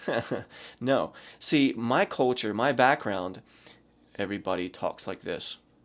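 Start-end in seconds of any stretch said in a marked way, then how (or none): 4.2-5.6 low, soft, flat monotone. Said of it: "Everything is monotone".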